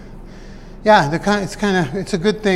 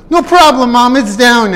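higher, louder, overly agreeable reply; mock placating son; 6 semitones higher, 6 dB louder than usual. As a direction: sell the lie brightly. Placating mom on the phone.

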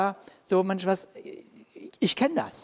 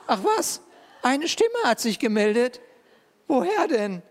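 higher, amused disbelief; God's mock astonishment at Elijah's excuse; mock surprise; 5 semitones higher than usual. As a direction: scoff at his excuse, half laughing. God answers in mock surprise.

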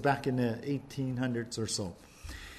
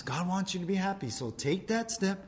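lightly voiced tempter; Satan tempting; 2 semitones higher than usual. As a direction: slip it in, persuasive and sly. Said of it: "Satan comes".

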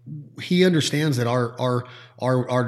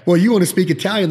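mock Italian exchange; 6 semitones higher, 5 dB louder, faster than usual.

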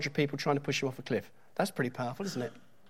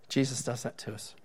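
quiet; 2 semitones lower, 5 dB quieter than usual. Acted. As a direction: drop the voice and say it softly. Preacher repeats line for effect.

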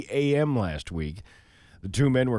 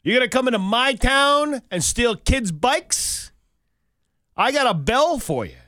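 higher, louder hammed-up threat to a thief; mock tough-guy rant; 10 semitones higher, 4 dB louder than usual. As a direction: bluster like a small-town tough guy, half laughing.

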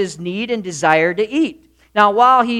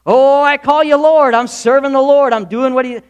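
higher, louder, hammed-up churchy voice; mock pious Christian; 6 semitones higher, 6 dB louder than usual. Preacher mocking Christians who call God Lord, hammed-up. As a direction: parody the self-satisfied believer. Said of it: "many Christians live their lives exactly like this".

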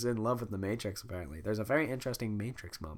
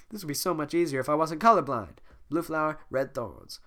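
Donkey voice; 4 semitones higher, 3 dB louder than usual. Acted. Donkey complaining.

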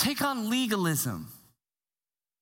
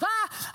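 mock scream; 9 semitones higher than usual. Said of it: "my wife screaming at the top of her lungs".

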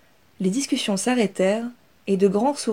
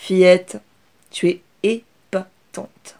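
louder, slow drawn-out praise in another voice; admiring cousin; 6 dB louder, much slower than usual. Acted. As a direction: marvel at her. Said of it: "admira son cousin".

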